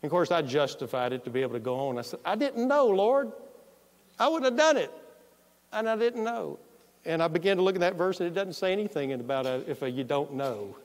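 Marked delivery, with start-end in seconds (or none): 2.2-6.6 pleading prayer. Retold or imitated. Pleading with the Lord.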